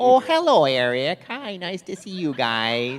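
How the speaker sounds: put-on very high, sweet, loud, swooping Minnesota accent. Describing how people tease him, a Minnesotan does a mock Minnesota mom accent. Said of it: "even though she doesn't talk like this".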